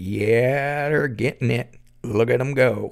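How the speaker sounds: put-on leering, creepy southern accent, drawn-out "yeah". Narrator quoting one of the guys watching the couple, creepy southern guy accent. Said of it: "in a classic creepy guy southern accent".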